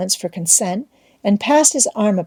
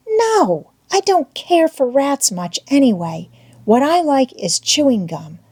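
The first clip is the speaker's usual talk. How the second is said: put-on higher, lilting little-girl voice; schoolgirl Becky; 6 semitones higher than usual. A narrator's reading. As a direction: play a choosy young schoolgirl. Girl character in read story.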